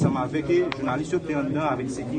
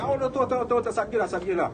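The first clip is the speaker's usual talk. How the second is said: retold urgent protest; 8 semitones higher than usual. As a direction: reenact a startled "wait, wait". Acted cry to wait, in retelling.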